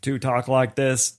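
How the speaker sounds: slow, even robotic syllables; computer voice. Shown as a demonstration. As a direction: speak like a cliché sixties computer. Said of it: "the stereotypical cliche computer voice, like".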